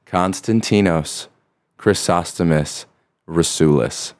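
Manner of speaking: Konstantinos Chrysostomus Rasulis said slowly in careful Greek; slow proud Greek full name; Greek pronunciation. Shown as a demonstration. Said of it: "That's it in Greek".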